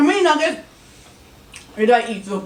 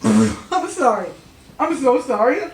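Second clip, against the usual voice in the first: laughing, slow, louder apology; 4 semitones higher, 5 dB louder, slower than usual. Real, not acted. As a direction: giggle through the apology. Laughing at partner's breathing.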